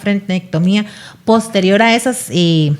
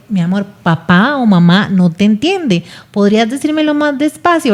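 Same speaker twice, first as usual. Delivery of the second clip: gentle parent. Shown as a demonstration.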